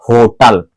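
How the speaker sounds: होटल with a breathed H from the throat; aspirated H. Shown as a demonstration. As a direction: push air from the chest to open होटल. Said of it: "गले के पास से होकर के सांस निकलती".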